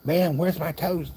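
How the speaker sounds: high, slow mock complaint about the missing toast; fed-up old man. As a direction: stretch it out like an irritated old customer. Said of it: "And finally he's like".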